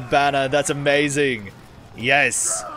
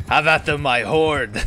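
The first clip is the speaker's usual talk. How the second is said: rallying cry; 2 semitones higher, 4 dB louder than usual. Acted. Rallying troops in game.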